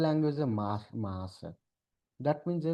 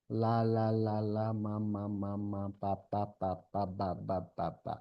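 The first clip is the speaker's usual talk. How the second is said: put-on baby babble; 4 semitones lower than usual. Shown as a demonstration. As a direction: gently mimic a toddler babbling. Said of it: "সেই লেবিও সাউন্ডগুলোই কিন্তু বাচ্চারা দেখবে আগে produce করতে পারে".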